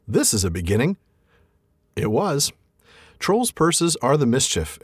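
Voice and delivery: reading the troll scene aloud with voices; story reading. A narrator's reading. Podcast host reading the troll scene to his co-host, story narration. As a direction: read it like a storyteller at the fireside.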